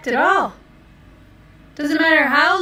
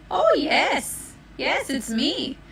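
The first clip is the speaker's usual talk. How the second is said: fake grandma voice; 4 semitones higher, slower than usual. Wolf disguised as grandma.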